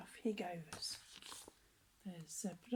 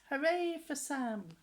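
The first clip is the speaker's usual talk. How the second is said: elephant trumpets; 5 semitones higher, 4 dB louder than usual. Acted. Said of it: "Elephant trumpets".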